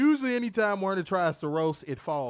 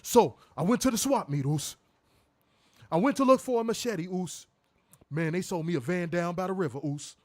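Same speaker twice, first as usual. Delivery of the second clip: lightly hammed-up Jey Uso-style parody; mock a put-on blaccent, tagging on the slang; exaggerated mock blaccent. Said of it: "What black person talks like that?".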